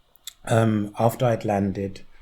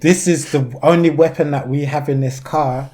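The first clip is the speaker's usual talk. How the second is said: mild solemn driver; 4 semitones higher, 6 dB louder than usual. Retold or imitated. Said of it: "and has said".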